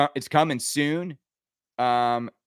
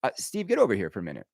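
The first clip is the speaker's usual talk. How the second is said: pretend boss call; 7 semitones lower, 4 dB quieter, much faster than usual. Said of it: "how come you weren't like".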